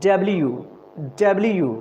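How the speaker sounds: W said clearly for practice; careful W; letter demo. Shown as a demonstration. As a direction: model W for students. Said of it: "क्या sound करेंगे इसको?".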